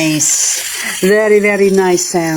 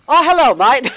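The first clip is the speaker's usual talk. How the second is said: casual greeting; 6 semitones higher, 3 dB louder than usual. Retold or imitated. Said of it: "It just felt like".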